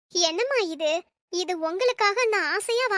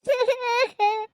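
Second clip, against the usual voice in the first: short weeping sobs; sobbing; 3 semitones higher than usual. Acted. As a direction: sob between sentences. Mother crying over daughter's fate. (விம்மல்)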